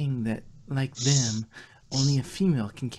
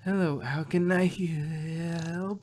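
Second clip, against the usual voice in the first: slow, bright polite greeting; polite welcome; 4 semitones higher, much slower than usual. Acted. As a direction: greet the visitor sweetly.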